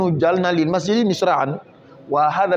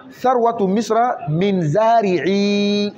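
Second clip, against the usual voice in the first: slow example reading; 2 semitones higher, much slower than usual. Shown as a demonstration. Teacher reading an example to students, very slow and deliberate. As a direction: spell the sentence out slowly for learners. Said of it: "teacher reads example sentence".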